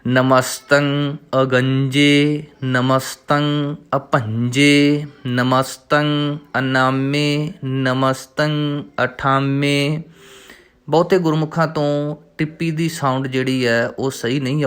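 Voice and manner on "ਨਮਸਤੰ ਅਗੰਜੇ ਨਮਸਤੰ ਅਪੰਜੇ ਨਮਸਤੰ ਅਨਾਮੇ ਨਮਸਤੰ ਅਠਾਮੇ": slow, measured recital of the verse; slow devotional reading; scripture recitation. Shown as a demonstration. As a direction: recite each word slowly and clearly.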